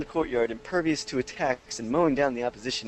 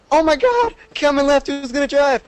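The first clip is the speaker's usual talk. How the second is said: squeaky high-pitched yelling friend; high mock panic; 12 semitones higher, 9 dB louder than usual. Retelling his panicked friend, high squeaky mock yell. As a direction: shriek it high like a panicked gamer. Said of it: "I heard them say".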